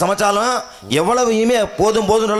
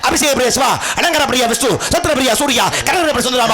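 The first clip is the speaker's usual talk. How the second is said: full-on theatrical self-announcement; shouted name recital; 3 semitones higher than usual. Acted. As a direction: proclaim each title in a driving, raised chant. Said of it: "ஏன் இப்படி கத்துறீங்க இப்ப".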